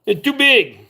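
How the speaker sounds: put-on high, slow little-kid whine; dad mimics his son's complaint in a squeaky child voice; imitating Gregor. Dad imitates son griping the hooks are too big, high childlike whine. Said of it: "That's how he says it".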